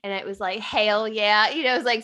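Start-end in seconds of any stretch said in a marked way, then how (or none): 0.6-1.5 put-on light country accent, a bit louder; real country. Podcast host quoting a meme she posted, country twang. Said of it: "something, like, real country".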